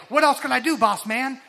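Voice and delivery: eager helper asking the boss, lightly voiced; eager sidekick. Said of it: "that sounds like Robin, like, to Batman".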